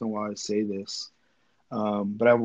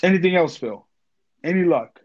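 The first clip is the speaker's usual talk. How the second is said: running out of air; 4 semitones higher, 5 dB louder than usual. Real, not acted. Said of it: "I'm running out of breath".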